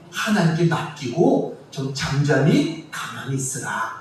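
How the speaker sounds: slow, hushed, soft, pleading tone.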